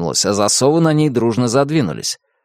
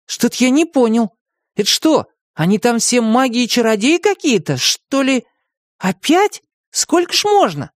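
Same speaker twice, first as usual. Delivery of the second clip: put-on grumbling boy; 13 semitones higher than usual. A narrator's reading. Tim complains.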